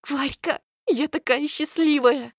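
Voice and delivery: happy. Acted. Friend overjoyed.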